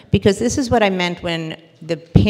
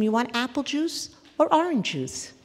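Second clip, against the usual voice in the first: put-on child voice; 8 semitones higher, 3 dB quieter than usual. Parent asks, child delights.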